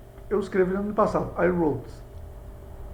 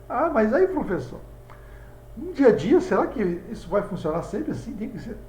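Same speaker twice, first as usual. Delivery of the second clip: mock student question; 4 semitones higher than usual. Imagined student asks teacher.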